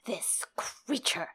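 hammed-up slow melodramatic denunciation; ridiculous overacted outrage, building to a loud finish; Lord Janos. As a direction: draw out every word, swinging from hushed to booming. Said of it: "go the extra mile and be ridiculous".

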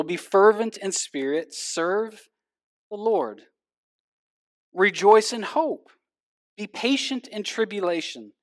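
measured, solemn reading of scripture. Acted. Pastor reading the Bible passage to the congregation, measured and solemn. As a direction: read each verse as a weighty command. Reads scripture aloud before sermon.

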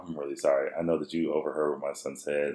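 low, soft apologetic voice; sincere apology. Retold or imitated. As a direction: apologise quietly and humbly. Retold apology to the lady.

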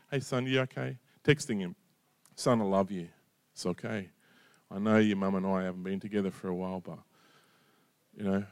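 soft, quiet fatherly reassurance; hushed, loving words to his son; tender reassurance. Retold or imitated. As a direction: speak gently, reaching out to a son who has pulled away. Father texting estranged son.

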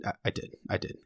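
breathy whispered confession; whispered admission. Real, not acted. Confessing to Emmett he cried, whispered. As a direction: own up in a hush.

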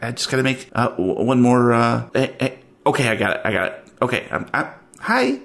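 lightly voiced busy clerk, stalling; distracted office clerk.

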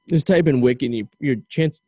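hiccupping mid-sentence; words broken by a hiccup. Real, not acted. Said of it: "Jesus, I got the hiccups now".

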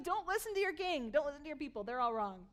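mild imitation of a yell; mock yelling. Enemy commander turning people against their king, mildly mock yelling. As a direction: raise the voice a little, mimicking a heckler. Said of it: "He's yelling".

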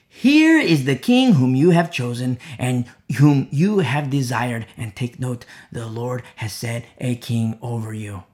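declamatory Bible reading; scripture reading. Acted. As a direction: proclaim the verse, then ease down. Reads verse aloud to congregation.

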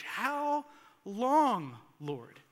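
anguished cry. Acted. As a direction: stretch it in anguish. Reading psalm of anguish.

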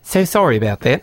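lightly put-on Australian-sounding accent; attempted Tim impression turning Australian. Co-host imitating Tim on request, attempted accent drifting Australian. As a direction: try an accent that slips into Australian. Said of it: "Say it in Tim's".

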